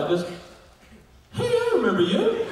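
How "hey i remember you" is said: high-pitched mock burst of recognition; excited recognition. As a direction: act out suddenly recognizing someone, voice shooting up. Retold delighted recognition of actor.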